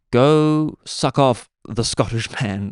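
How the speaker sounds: very slow, drawn-out command; mock coded order. Caller gives secret code order, slow and drawn out. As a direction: stretch each word like a secret instruction.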